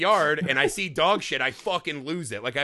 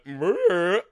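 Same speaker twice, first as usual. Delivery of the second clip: mock grumble. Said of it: "she did the".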